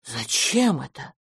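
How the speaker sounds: slow, mildly surprised question; a touch of wary bafflement; drawn-out, understated puzzlement; puzzled. A narrator's reading. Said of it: "удивился мистер Браун".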